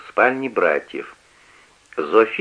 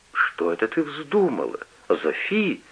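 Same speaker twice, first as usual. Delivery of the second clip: soft, plaintive question; lamenting softly; 4 semitones higher, 5 dB quieter than usual. A narrator's reading. Mother softly laments Sophie leaving. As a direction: wail it quietly. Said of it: "запричитала мать".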